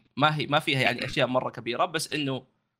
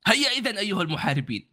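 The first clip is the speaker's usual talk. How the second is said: slightly raised formal Arabic; formal standard arabic; 7 semitones higher than usual. Acted. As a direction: call them on in formal Arabic. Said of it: "ما عرفت تقول بالفصحى".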